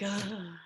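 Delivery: acted "ugh" of disgust; frustrated groan. Sixteen-year-old sent out onto the ice, frustrated groan. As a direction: groan like a fed-up teenager. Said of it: "He's so disappointed. He's so angry".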